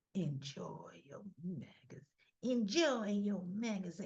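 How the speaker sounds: soft, eerie, creepy, unhinged voice. Retelling what a woman said, in a creepy crazy voice. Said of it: "it was this crazy voice".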